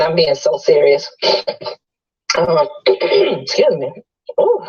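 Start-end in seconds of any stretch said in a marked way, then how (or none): 1.2-3.9 choking on water, coughing. Real, not acted. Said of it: "that water went down the wrong pipe". 4.4-4.6 coughing up water. Real, not acted. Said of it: "that water went down the wrong pipe".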